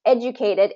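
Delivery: "educated" with stress on the first syllable, ED. Shown as a demonstration. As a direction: hit the opening syllable of "educated". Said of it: "first syllable stress".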